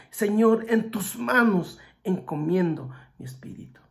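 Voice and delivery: "Señor" shouted high and loud, the rest sinking away; loud cry. Retold or imitated. Jesus crying his last words to the Father, loud then fading. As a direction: call it out to heaven, then let it fade. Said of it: "lo dijo a gran voz".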